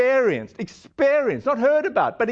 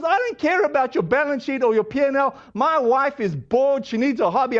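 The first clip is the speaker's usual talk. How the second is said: imitated annoyed caller, pitched higher; mock exasperation in a higher voice; 4 semitones higher than usual. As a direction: act out a caller's impatient outburst. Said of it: "he's really getting annoyed".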